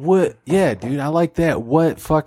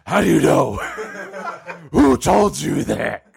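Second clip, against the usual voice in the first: scary God voice. Acted.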